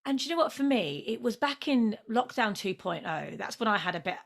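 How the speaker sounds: usual speaking voice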